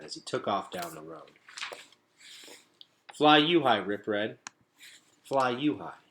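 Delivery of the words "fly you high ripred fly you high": loud, high call after the rat; shouted farewell. A narrator's reading. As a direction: shout it after him as he runs off. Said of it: "shouted Gregor".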